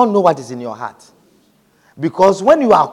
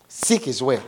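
softly spoken; 3 semitones lower, 8 dB quieter than usual. Real, not acted. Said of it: "quiet restating of scripture".

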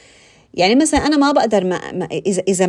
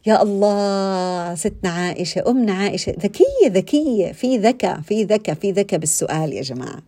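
musing admiration. Retold or imitated. Speaker recalls musing on Aisha's clever question, musing admiration. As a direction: marvel to yourself, stretching the opening words. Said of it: "أقعد أفكر أقول".

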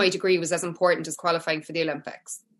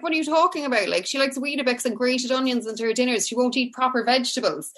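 mildly exasperated, pitched-up retort; baffled mother; 5 semitones higher than usual. Retold or imitated. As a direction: lightly imitate a mum setting someone straight.

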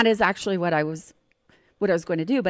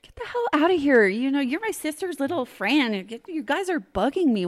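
higher-pitched irritated telling-off, acted; mock exasperation, voice raised in pitch; annoyed brother; 6 semitones higher than usual. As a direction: imitate a boy shooing away his sister's friend.

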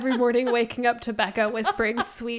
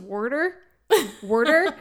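put-on a light Philly accent on Worter; Philly accent imitation. Quoting a comedian's Philly accent, light Philly Worter. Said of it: "Philly accent".

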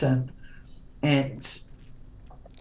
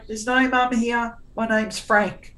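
playful denial; 6 semitones higher than usual. Retold or imitated. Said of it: "And I'd go".

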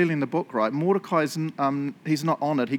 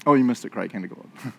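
gentle pointing-out; 6 semitones lower, faster than usual. Acted. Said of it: "sit down with Jesus".

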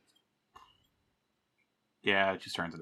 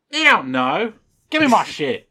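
demanding shout; 7 semitones higher, 6 dB louder than usual. Retold or imitated. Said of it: "he's like".

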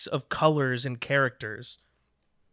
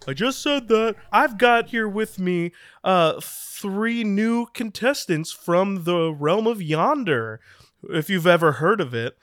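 announcer voice; 3 semitones higher than usual. Acted. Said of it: "the ethereal voice says".

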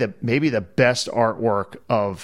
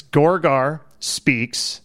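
slow game robot voice; much slower than usual. Retold or imitated. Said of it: "It says".

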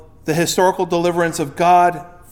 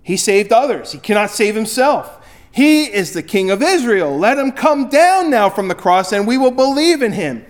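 mocking; 5 semitones higher, 4 dB louder than usual. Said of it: "mocked him".

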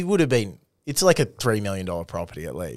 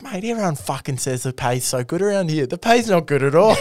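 higher-pitched, exasperated retold gripe; mock indignant complaint; 6 semitones higher than usual. Imitating complaining office-job workmates.

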